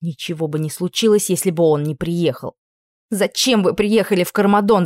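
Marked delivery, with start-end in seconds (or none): 3.1-4.8 a raised, accusing cry; angry shout. Acted. Princess confronts the prince who came, angry shout. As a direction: hurl the question at him. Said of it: "закричала я".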